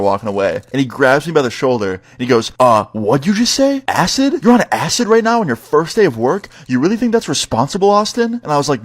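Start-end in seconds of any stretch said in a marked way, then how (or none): 2.6-8.4 high-pitched, rising disbelief; incredulous boss. Retold or imitated. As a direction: imitate a scandalized boss questioning an employee. Boss shocked at acid confession.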